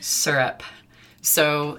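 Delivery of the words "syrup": "Syrup" said as "sur-up", with an r-colored vowel; regional pronunciation. Shown as a demonstration. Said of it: "I say syrup".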